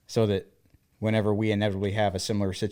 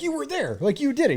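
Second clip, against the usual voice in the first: insistent protest. Retold or imitated. Insisting to husband he did it.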